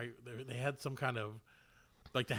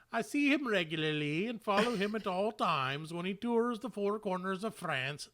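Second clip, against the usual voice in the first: higher-pitched put-on German accent; mock German accent; 5 semitones higher than usual. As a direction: quote her in a loose, hammed-up German accent. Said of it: "she's, she's German, so she says".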